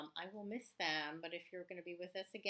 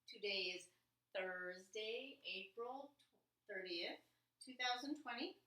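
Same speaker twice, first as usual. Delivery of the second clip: reciting together; 3 semitones higher than usual. Shown as a demonstration. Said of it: "go ahead and say that with me".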